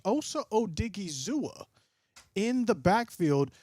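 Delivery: lightly voiced game commentary; play-by-play call. Streamer calling the game live for chat, a light play-by-play. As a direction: call the snap like a broadcaster.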